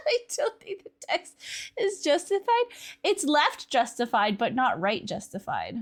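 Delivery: ordinary talk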